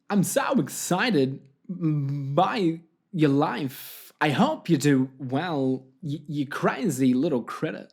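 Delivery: halting impression, turning mildly threatening; oddly broken phrasing, affirmations that become a mock threat; lightly imitated actor with stop-start delivery; Christopher Walken. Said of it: "threatening Christopher Walken telling us to be happy".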